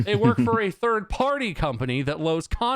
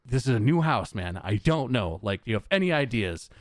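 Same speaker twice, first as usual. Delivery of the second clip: lower, restrained retold reply; trying to stay calm; 6 semitones lower than usual. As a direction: hold the irritation down. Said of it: "trying to stay calm".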